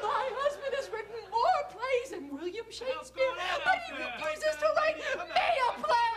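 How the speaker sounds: laughing hysterically through tears; half-laughing half-crying complaint. Acted. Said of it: "just an hysterical wife".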